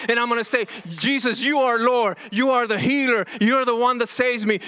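impassioned sermon delivery; fervent preaching. Acted. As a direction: preach it out to the congregation. Preaching builds to full force.

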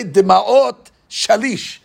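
slow, each word of Demaot Shalish drawn out; slow quoted phrase. Shown as a demonstration. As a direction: lay out Demaot Shalish slowly for the class. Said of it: "So we would say".

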